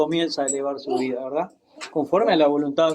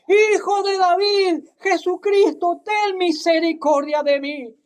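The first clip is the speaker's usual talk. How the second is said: crying out louder; 10 semitones higher than usual. Acted. Bartimeo shouting over the crowd to reach Jesus, desperate cry. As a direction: stretch the plea out, louder than the crowd. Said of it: "Clamaba más fuerte todavía".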